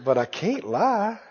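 soft, slow reluctant admission; hushed private reasoning; retold inner thought. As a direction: say it quietly to yourself, taking your time. Thinking to himself, reluctant confession.

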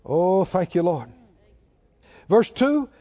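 ordinary delivery

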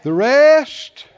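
"The rest" called out loud; loud repeat. Shown as a demonstration. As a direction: punch out "The rest". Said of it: "Somebody say".

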